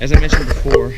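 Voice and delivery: winded from the climb; puffing between words; out of breath. Real, not acted. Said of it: "sorry, out of breath".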